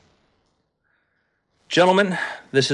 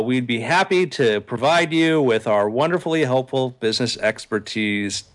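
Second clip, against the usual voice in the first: slow, drawn-out sarcastic offer; slower than usual. Real, not acted. Host offering listeners their business expertise, sarcastic. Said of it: "I say sarcastically".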